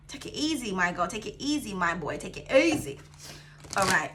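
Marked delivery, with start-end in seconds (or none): 0.1-3.0 softer hushed reassurance; calm them down tenderly; soothing. Acted.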